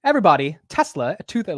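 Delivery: high, badly faked British accent; hammed-up mock British accent, high and loud; horrible British accent. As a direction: attempt a British announcer opening the market. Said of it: "that's a horrible accent".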